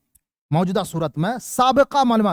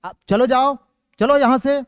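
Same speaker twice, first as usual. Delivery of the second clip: raised, brusque order to get out; command; 4 semitones higher, 3 dB louder than usual. Shown as a demonstration. Teacher showing an order to leave, brusque. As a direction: push them out with a firm order. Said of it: "یہ کیا آدیش ہوا؟".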